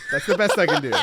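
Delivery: giggling self-conscious apology; laughing. Real, not acted. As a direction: laugh it off after the attempt.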